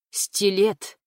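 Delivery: mild narrated roar; roaring teacher. A narrator's reading. Angry teacher calls Stiletto to account, mild roar. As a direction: call out the name in anger, held back. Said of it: "взревел Сайсиен".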